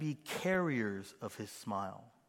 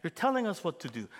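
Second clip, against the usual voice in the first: mock congregation protest; 5 semitones higher than usual. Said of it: "You're like".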